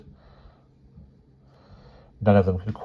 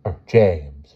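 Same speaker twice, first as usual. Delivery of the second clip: teacher easing off from stern; softened schoolmistress address; more gently; 5 dB louder, much slower than usual. A narrator's reading. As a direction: say the name again, milder. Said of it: "she said more gently".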